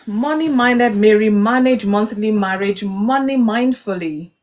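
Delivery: slow, careful tongue twister; slow tongue twister demo. Shown as a demonstration. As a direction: spell out each word slowly. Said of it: "Three times without blabbing".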